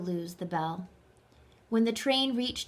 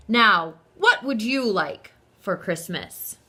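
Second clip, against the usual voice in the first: a hint of a jolly Santa, louder; Santa asking; 7 dB louder than usual. A narrator's reading. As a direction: kindly ask the child his wish. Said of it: "and he asked".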